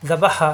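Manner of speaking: যাবা হা with a soft "dh" on যা; soft first letter. Shown as a demonstration. Teacher corrects the word, যাবা হা begun softly. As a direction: soften যা at the tongue tip. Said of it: "যা নরম করে".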